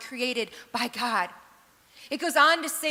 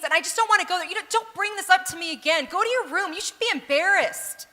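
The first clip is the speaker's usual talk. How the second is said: mock scolding parent; 3 semitones higher than usual. Hypothetical shaming parent.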